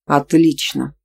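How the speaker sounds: usual speaking voice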